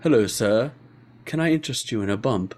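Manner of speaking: lightly voiced English butler; a hint of a polite butler offering service. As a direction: play a mock butler, understated.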